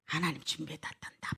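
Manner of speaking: Abraham quietly reassuring his son Isaac, low and soft; hushed reassurance. Acted. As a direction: murmur it low to the child.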